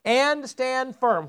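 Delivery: slow, measured Bible reading; solemn scripture read. Acted. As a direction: read it to the congregation, weighty and deliberate. Reads scripture aloud.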